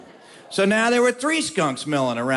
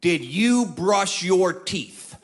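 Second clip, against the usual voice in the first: slow, deadpan, utterly serious question; much slower than usual. Retold or imitated. Skeeter asks Bill, fighting laughter, slow deadpan seriousness. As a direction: keep a straight face while asking, slowly. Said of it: "as seriously as possible".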